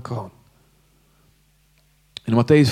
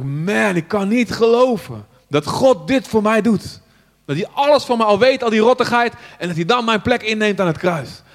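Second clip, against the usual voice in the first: amazed disbelief; 5 semitones higher than usual. Retold or imitated. Retelling his amazed realisation.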